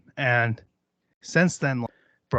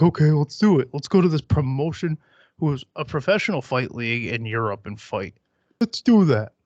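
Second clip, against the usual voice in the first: mock eager; 2 semitones higher, 4 dB louder than usual. Mocking imagined eager reply.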